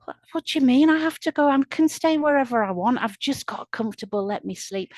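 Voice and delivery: high, loud start, easing down; indignant protest. A narrator's reading. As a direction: protest at being disturbed, indignant then settling. Sleepy hobo protests being moved.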